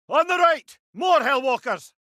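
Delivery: loud, high shouted enemy warning; battle callout. Acted. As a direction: call out the threats over the din. Combat callout.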